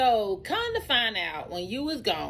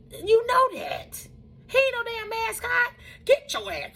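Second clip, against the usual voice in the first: upset crying rant; 8 semitones higher than usual. Retold or imitated. Retold tearful rant at son.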